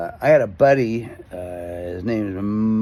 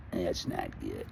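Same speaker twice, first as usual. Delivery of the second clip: low, very soft deadpan; mock stunned understatement; 13 semitones lower, 11 dB quieter, slower than usual. Passenger learns he was burned, quietly stunned. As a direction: sink to a hushed comic reply.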